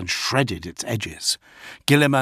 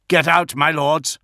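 yelled warning; 5 semitones higher, 4 dB louder than usual. A narrator's reading. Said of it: "Pollux yelled".

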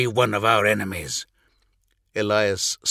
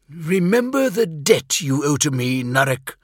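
a touch higher, pressing the debt on him; mild warning; 5 semitones higher than usual. Acted. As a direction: remind him of what he owes, lightly menacing. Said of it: "he warned".

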